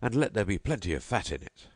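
host calling his servant for the meat pudding. Acted. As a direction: order the pudding across the room. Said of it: "Then he called out".

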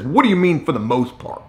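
imitating an irritated supervisor, pitch jumping up then falling away; aggravated. Supervisor questioning the neighbor's answer, aggravated. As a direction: throw it back as a testy challenge. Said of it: "Like he's getting aggravated about this".

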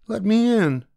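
mother demanding at the witch's hut, very high and loud; calling out. Acted. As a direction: demand at the door. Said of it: "the mother called".

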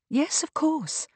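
high, slow, soothing reassurance. A narrator's reading. Kate calms the agitated Beatrice, soothing. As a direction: soothe her, drawing the words out. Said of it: "said Kate soothingly".

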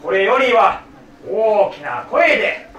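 slow, stately archaic declamation; formal kyogen recitation. Acted. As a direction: proclaim like a stage samurai. Continues archaic stage speech.

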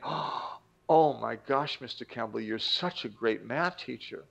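gasp, then slow acted amazement; awed students. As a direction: imitate admiring students, drawing out the praise. Students voiced admiring their teacher.

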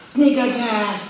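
high, loud battle-cry shout; retold yell. A friend ambushing Douglas with shaving cream, loud high shout. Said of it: "and he yells".

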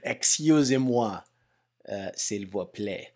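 put-on slow, playful French accent; sleepy joking French accent. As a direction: toss it off in a mock French accent. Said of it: "I do the I switch accent".

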